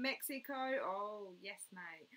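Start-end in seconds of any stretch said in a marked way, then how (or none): none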